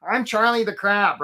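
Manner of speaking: slow, put-on cartoon crab voice; goofy, stretched-out character voice; Charlie the crab. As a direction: introduce yourself as a silly cartoon crab. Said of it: "Charlie talks like this".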